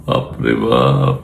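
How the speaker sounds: slow, drawn-out oh my goodness; mock amazement. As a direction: stretch it out in mock awe. Mock awe at the politician. (ধীরে টেনে টেনে বলা বিদ্রূপাত্মক বিস্ময়)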